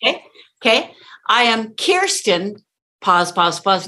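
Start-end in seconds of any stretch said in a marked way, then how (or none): 1.3-3.9 slow "I am Kirsten", then held pauses; pause before punch. Shown as a demonstration. Coach modelling the student's name, slow with pauses after "Kirsten". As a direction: lift "Kirsten" and leave space after it. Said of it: "Now punch with upward, louder inflection".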